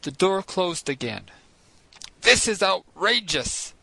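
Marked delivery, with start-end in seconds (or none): 2.2-3.7 slow, loud, indignant outburst; indignant shout. Acted. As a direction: let the outrage burst out. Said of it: "Ned Land shouted".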